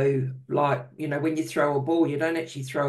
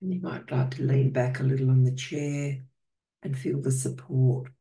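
calm, unhurried meditation guidance with long pauses; guided meditation. Real, not acted. Host guiding healing circle to get comfortable, calm meditation voice. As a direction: settle listeners in, leaving space between phrases.

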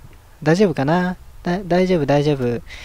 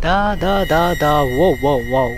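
chanted vocal noises; 3 semitones lower than usual. Real, not acted. Vocal noises during game action.

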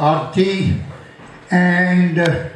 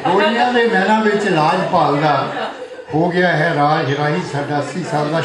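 rhythmic verse, line by line; poetry recitation. Acted. Poet honouring a friend turning eighty, rhythmic recitation. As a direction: recite each line to the room, pausing between them. Recites birthday poem to audience.

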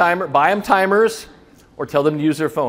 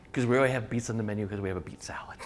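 whispered aside; 5 semitones lower, 8 dB quieter, much faster than usual. Retold or imitated. Whispered aside about beets.

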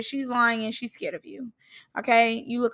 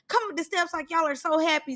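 slightly higher, quick director's cue; director's instruction; 4 semitones higher, faster than usual. Retold or imitated. Reactor imitating the director staging the scene, hurried prompting. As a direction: rush out a lightly voiced director's order. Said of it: "whoever is the director was like".

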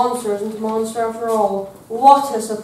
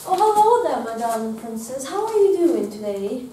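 cheery witch greeting. Acted. Witch enters greeting the princess.

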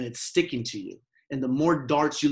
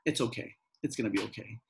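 calming self-talk; 3 semitones lower, 5 dB quieter than usual. Shown as a demonstration. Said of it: "In through your nose".

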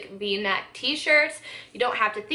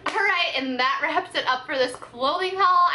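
a bit out of breath. Real, not acted. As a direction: talk slightly winded after a long haul. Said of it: "I feel like I'm out of breath over here".

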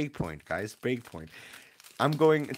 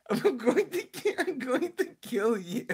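mock threat; 7 semitones higher than usual.

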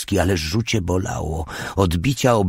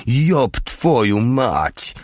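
high, drawn-out cry; sudden exclamation; 6 semitones higher, much slower than usual. A narrator's reading. Mały suddenly startled in the forest, crying out. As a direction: exclaim the curse high and slow, without full shouting. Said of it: "mały nagle wykrzyknął".

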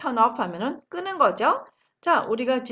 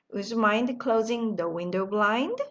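very slow, every word laid out; slow model sentence; much slower than usual. Shown as a demonstration. Teacher modelling the phrase slowly for the class. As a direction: spell it out slowly for learners to copy. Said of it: "한 번 더 하죠".

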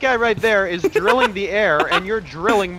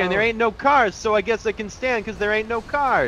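put-on Liberty City accent. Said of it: "I got a Liberty City accent".

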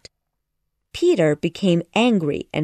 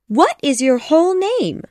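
put-on high-pitched girl's voice, questioning; high girl character asking a crying boy; Wendy; 9 semitones higher, 4 dB louder than usual. A narrator's reading. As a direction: ask in a high, lifted little-girl voice. Narrator voices Wendy questioning Peter.

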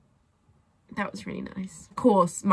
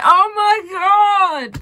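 much higher, slow gush; excited squeal; 10 semitones higher, 7 dB louder, much slower than usual. Retold or imitated. Fan melting when Harry smiles, high excited squeal. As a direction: melt into an excited gasp. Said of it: "and I'll just be like".

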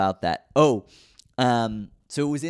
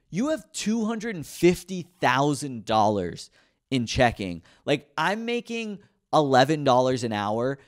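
retold incredulity; 2 semitones higher than usual. Retold disbelief at rich customer.

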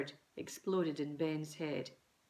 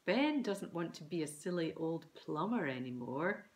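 award-ceremony announcement. A narrator's reading. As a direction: announce it like a winner's name. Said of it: "as if about to read out a winner".

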